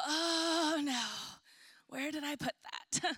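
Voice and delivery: a touch of sudden panic, pitch jumps up; mock panic. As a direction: act out the first jolt of alarm. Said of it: "that moment of panic where you just go".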